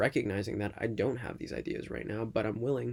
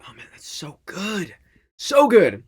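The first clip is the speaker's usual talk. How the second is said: delighted; 10 semitones higher, 15 dB louder, slower than usual. Real, not acted. Savouring coconut water.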